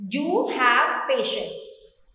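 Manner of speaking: "Do" leaned on, slow and firm; slow, emphatic "Do have patience"; stress on do. Shown as a demonstration. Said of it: "we add do to emphasize it".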